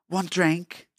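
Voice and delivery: put-on amateur Australian tourist accent. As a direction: put on a loose Aussie accent. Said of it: "I can't do an Australian accent".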